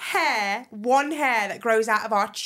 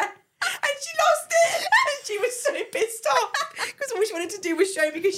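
high squeal easing into laughing speech; laughing exclamation; 12 semitones higher than usual. Real, not acted. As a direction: shriek the climax, then carry on laughing. Hilarious climax of story.

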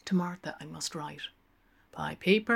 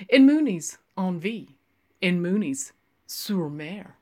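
mock grandiose; 2 semitones higher, 7 dB louder than usual. Lenehan mock-grand wordplay.

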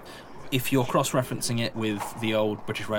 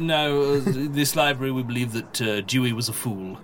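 librarian voice; 4 semitones higher than usual. Acted. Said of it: "this is the librarian's voice".

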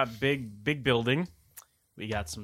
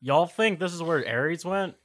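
put-on copying Pierce's accent; 7 semitones higher, 7 dB louder than usual. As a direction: put on Pierce's Southern twang. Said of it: "Why are you copying Pierce's accent?".

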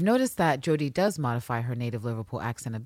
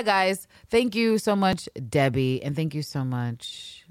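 slow heartfelt thanks; slower than usual. Real, not acted. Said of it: "thanking listeners".

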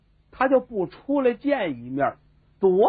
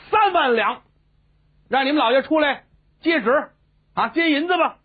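haughty official; 5 semitones higher than usual. Acted. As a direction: announce the silver like a proud minister. 和珅 announcing to servants. (傲慢的官腔，高声宣布)

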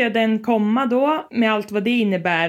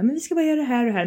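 quick, breezy reassurance; a hint of sugary staff voice, fast; fast cheery quote; 4 semitones higher, much faster than usual. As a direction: mimic falsely nice lab staff, rushed. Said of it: "för de är så himla".

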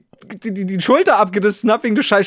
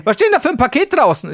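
mother's question; 8 semitones higher, 5 dB louder than usual. Retold or imitated. Mother questions about the package.

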